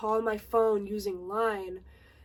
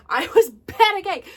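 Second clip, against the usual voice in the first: laughing; 10 semitones higher, 14 dB louder than usual. Real, not acted. Laughs while recalling the panic.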